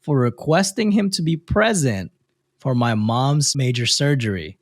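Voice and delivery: measured read-aloud with lifted phrase starts; reading a post aloud. A narrator's reading. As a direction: read out the letter clearly, pausing between phrases. Reads a listener's post aloud.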